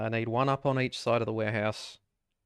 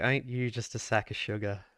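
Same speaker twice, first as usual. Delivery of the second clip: through gritted teeth. Retold or imitated. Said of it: "through gritted teeth".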